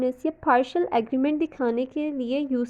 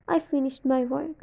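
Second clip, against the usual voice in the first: "I finished my work" slow, voice falling at the end; falling intonation; much slower than usual. Shown as a demonstration. Teacher demos falling tune for students, slow. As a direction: drop the voice on "work", said slowly. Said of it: "सबसे पहले है falling intonation".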